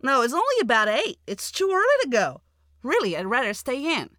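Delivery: high, loud, whining objection; protesting refusal. Acted. Wife refusing her husband's restaurant plan, protesting. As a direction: dig your heels in, high and insistent.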